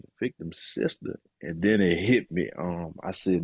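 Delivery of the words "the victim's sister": breathless whispered echo, caught off guard; a hushed, disbelieving question; stunned whisper. Retold or imitated. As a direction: repeat it under your breath in disbelief. Stunned echo of lawyer's news.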